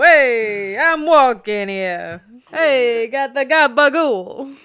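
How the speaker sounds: slow, drawn-out Italian-American caricature; mock New York Italian accent. Trading catchphrases with co-host, hammed-up New York Italian accent.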